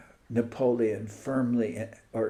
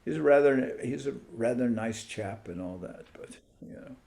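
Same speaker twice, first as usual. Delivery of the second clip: dismissive; 5 dB quieter than usual. Retold or imitated. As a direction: wave the Pope away as nothing. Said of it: "they immediately dismissed it".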